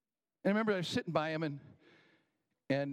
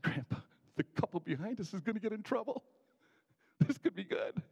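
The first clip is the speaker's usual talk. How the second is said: put-on high, conspiratorial kid telling grandpa; eager tip-off; 6 semitones higher than usual. Boy nudges Grandpa about the couple behind them, eager tip-off. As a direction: pass on juicy gossip, pitched up.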